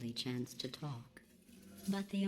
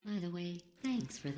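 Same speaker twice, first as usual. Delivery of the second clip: sarcastic; 3 semitones higher than usual. Acted. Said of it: "Sarcasm self-test complete".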